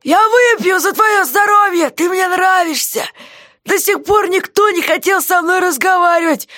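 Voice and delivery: jailer's voice, clearly put on; gruff jailer. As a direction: play the surly jailer shouting down. Guard voiced by reader.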